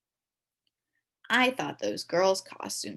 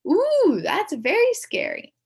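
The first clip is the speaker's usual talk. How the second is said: mock scared; 14 semitones higher, 10 dB louder, slower than usual. Teacher pretending to be scared.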